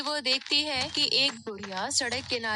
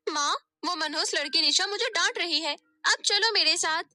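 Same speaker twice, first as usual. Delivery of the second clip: fast, higher whiny complaint then outrage; complaining then indignant; 5 semitones higher, 4 dB louder than usual. Acted. Daughter tells mother on her sister, indignant. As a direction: stir the mother up.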